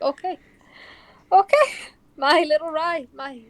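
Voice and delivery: rising, breathless happy okays; overjoyed. Acted. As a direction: stammer out joy at the news. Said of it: "she's just like".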